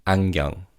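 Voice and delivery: 안경 with the first ㄴ almost as ng; fast-speech pronunciation. Shown as a demonstration. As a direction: say 안경 like "ang-gyeong". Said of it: "almost sounds like ieng".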